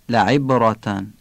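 لعبرتن slowly, with the ayn made in the throat; articulated ayn. Shown as a demonstration. Teacher demonstrating لعبرتن for learners, clear ayn.

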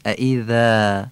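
ائذا slow, with thin "th" as in this; soft tongue-tip dhal. Shown as a demonstration. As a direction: say ائذا with a light interdental dhal. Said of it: "نوک زبانی و نازک".

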